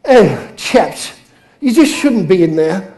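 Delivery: lightly acted polite English reproach; hint of a gently miffed Pom; mild-mannered Pommy. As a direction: play a mock-ballistic Englishman who barely gets cross. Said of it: "the Pommy guy goes ballistic too".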